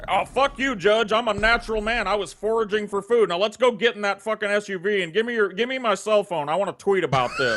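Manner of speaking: high, fast, giggly parody of a defiant crank; hammed-up defiant courtroom crank, breaking into laughs; mock sovereign citizen. Host acts a sovereign citizen defying the judge, high and giggly.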